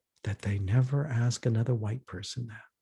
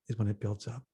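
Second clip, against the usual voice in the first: ordinary delivery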